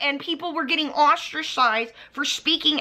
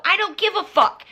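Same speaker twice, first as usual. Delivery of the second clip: mocking Alicia's catchphrase; 4 semitones higher, 3 dB louder than usual. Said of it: "flip your tongue like this and go".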